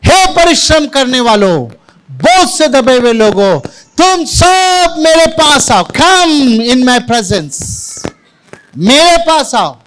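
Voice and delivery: high, stretched-out cry; loud calling out. Acted. Preacher voicing Jesus's call to all the burdened, calling out loudly. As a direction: proclaim it with long, ringing vowels. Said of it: "ऊंची आवाज में जो है पुकार कर कहा".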